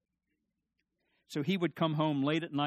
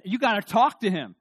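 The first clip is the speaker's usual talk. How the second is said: mock crying plea; 5 semitones higher, 10 dB louder than usual. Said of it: "I cry and I".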